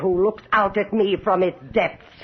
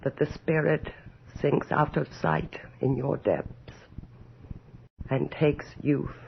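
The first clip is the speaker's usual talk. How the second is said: hushed musing; 5 semitones lower, 7 dB quieter than usual. Acted. Countess alone whispers fearfully to her looking glass. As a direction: murmur to your reflection as if afraid of the answer. Alone, addressing mirror in fear.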